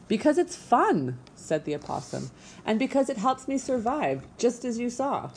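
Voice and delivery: a hint of a preening stage actress; lightly voiced theatrical opossum.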